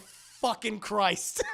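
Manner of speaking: imitated exasperation, stretched out; exasperated curse. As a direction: draw out the curse like a rattled boss. Acting a rattled, exasperated boss.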